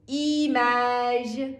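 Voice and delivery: ایمج را آهسته و با ژ پایانی بگو; French image. Shown as a demonstration. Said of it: "teacher models French word". (ایمج با ژ فرانسوی، کشیده)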